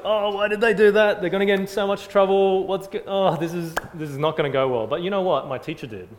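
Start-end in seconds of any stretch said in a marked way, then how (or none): 0.0-4.9 put-on higher, louder worried kid voice; hammed-up childish alarm; mock panic. Boy worrying the girls will get in trouble, higher and louder. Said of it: "I'm thinking to myself".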